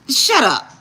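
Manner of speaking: real laugh after a high shout; laughing shut up. Real, not acted. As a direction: laughs off her sisters' scolding. Reacting to sisters' scolding.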